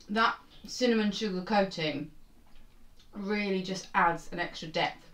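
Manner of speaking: talking while chewing; mouth full. Real, not acted. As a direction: speak around a bite of cookie. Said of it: "Don't talk with your mouth full".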